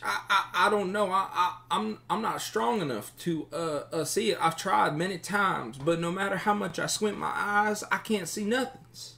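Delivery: high, stuttering, helpless voice; nervous captive bandit. Acted. Captive bandit admits he lacks magic sight, high and pleading. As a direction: squeak out a stammered excuse.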